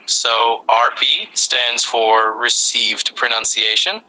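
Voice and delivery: slow, steady explanation in measured words. Shown as a demonstration. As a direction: explain it slowly for a learner. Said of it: "I'll keep it slow and steady".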